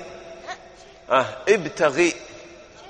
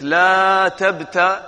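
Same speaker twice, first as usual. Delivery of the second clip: drawn-out singsong example; teacher chanting the example slowly; sing-song demo; 3 semitones higher, 3 dB louder, much slower than usual. Shown as a demonstration. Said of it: "حطيت أداة جزم".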